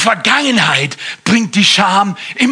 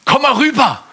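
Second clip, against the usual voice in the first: frecher Papagei; 7 semitones higher than usual. Acted. Papagei ruft.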